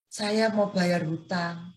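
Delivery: slow, strained voice of a sick friend; altered sick voice. Retold or imitated. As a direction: drag the words out like someone worn out by illness. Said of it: "suaranya tuh berubah banget". (suara teman yang sakit, pelan dan lemah)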